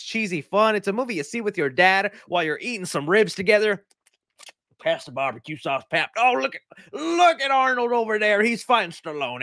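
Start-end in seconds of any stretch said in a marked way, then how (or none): 4.8-6.1 put-on a softer, lower kid asking for sauce; lightly voiced son at barbecue. Acted dad and son scene. 6.2-9.4 put-on higher, eager kid pointing at the screen; excited kid. Acted kid watching movie with dad.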